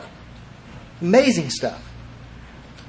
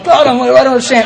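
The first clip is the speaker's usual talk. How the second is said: high-pitched mock exasperation; retold anger; 7 semitones higher, 4 dB louder than usual. Asked to sponsor Terry, retold exasperated protest. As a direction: imitate an indignant complaint to God. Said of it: "I was so mad".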